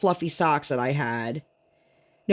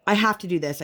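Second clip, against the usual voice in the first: mimicking a toddler; 3 semitones higher, faster than usual. Mother mimicking her daughter's contradictions, mildly childish. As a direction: lightly play the stubborn kid. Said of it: "It's like".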